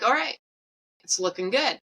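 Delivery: lilting imitation of pleased nurses; upbeat quote. Nurses telling patient her results improve, mildly upbeat imitation. Quoting nurses' hopeful verdict.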